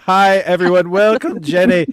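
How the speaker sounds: excited voice breaking; voice cracking. Real, not acted. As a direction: voice cracks on Jenny. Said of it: "my voice cracked".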